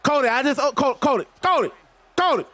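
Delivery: Dusty Rhodes. Acted. Wrestler scolds Cody over ranch on pizza, in impression. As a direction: play an old wrestler fussing over his food. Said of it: "I will do a Dusty Rhodes voice".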